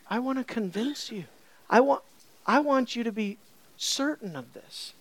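voicing a patient, tender promise; gentle reassurance. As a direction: reassure softly after the brusque retort. Voices God's gentle answer, contrasting retort.

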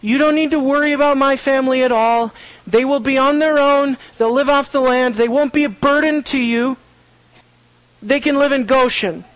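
a mild hint of Joseph easing Pharaoh's worries; reassuring Joseph. Joseph assures Pharaoh his family is harmless, lightly voiced reassurance. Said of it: "Joseph is communicating to Pharaoh".

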